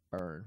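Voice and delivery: burn fully sounded; burn, the ending to avoid; wrong ending shown. Shown as a demonstration. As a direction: say burn as a whole syllable. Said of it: "instead of".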